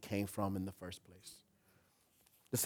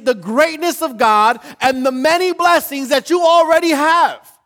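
high, loud, sustained preaching shout; full-force preaching; 15 dB louder than usual. Real, not acted. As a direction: preach it at the top of your voice.

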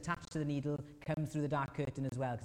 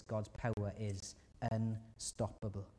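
slow; 2 semitones lower, slower than usual. Shown as a demonstration. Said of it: "repeated point".

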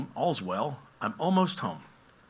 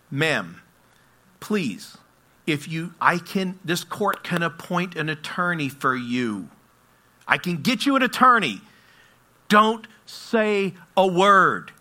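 louder, slow and urgent at the end; pleading judge; 4 semitones higher, 4 dB louder than usual. Retold or imitated. Judge begging the lady to say nothing, slow and urgent. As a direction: beg her to stop talking.

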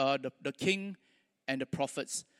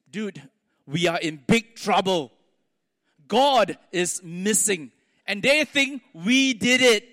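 put-on panicked kid; 6 dB louder, slower than usual. Panicked boy tells his brother.

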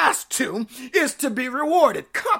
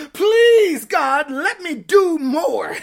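pleading cry; 5 dB louder, slower than usual. Acted. Begging God to let them give.

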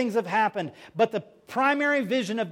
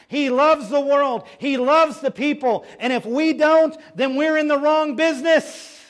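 preaching climax; 6 semitones higher, 6 dB louder than usual. Real, not acted.

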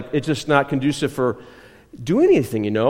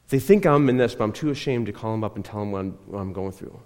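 fading softer and lower into shame; retold holding back tears; 5 semitones lower, 4 dB quieter than usual. Young man too ashamed to call home, retold holding back tears. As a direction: quietly imitate a man containing his tears. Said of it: "he was holding back the tears".

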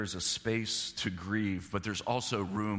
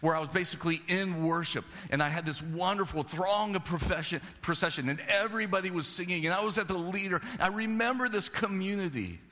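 wistful psalmist; 6 semitones higher than usual. Retold or imitated. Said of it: "And what does he remember?".

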